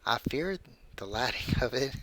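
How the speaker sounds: creepy story read in a put-on voice; measured narration with swooping pitch and pauses; Burt's Bees. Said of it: "I'm reading this in my Burt's Bees voice".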